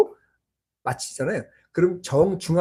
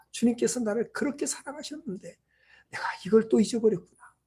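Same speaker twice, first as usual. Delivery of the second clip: quiet repentance; 3 semitones higher, 9 dB quieter than usual. Retold or imitated. Retold repentant realization, much softer.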